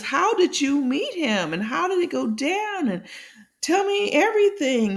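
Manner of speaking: eager nosy asking. Retold or imitated. Retold friend eagerly asking for gossip.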